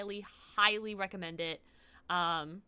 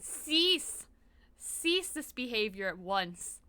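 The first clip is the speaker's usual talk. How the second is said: 1 mock commanding voice; much slower than usual.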